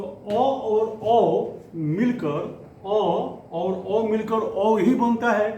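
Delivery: drawn-out vowel by vowel; slow spelling out. Shown as a demonstration. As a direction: spell each vowel slowly for the class. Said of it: "teacher spells out the vowels slowly". (धीमे-धीमे स्वर बताते हुए)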